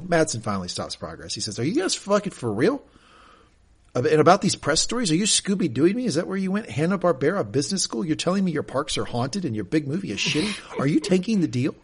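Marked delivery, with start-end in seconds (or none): 1.6-11.7 higher-pitched string of mock-incredulous questions; incredulous confrontation. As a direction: act out a disbelieving interrogation, pitched up. Matsson confronts them, incredulous quote.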